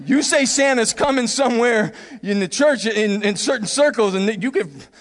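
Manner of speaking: ordinary delivery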